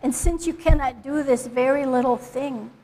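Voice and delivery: deliberate Bible reading, pausing after each phrase; scripture reading. Acted. Reader gives the congregation the passage in context, scripture reading. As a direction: read the passage out clearly, phrase by phrase. Second speaker reads the passage.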